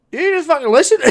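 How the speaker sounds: high, loud burst breaking into laughter; hammed-up exasperated shout; mock outraged yell. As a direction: yell it as the fed-up friend, half laughing. Acting out the ignored friend's outburst.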